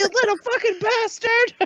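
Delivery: high, drawn-out playful cursing; mock fury. Mother plays at cursing the pushy kid, mock fury. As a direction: spit out a hammed-up insult, slowly and high.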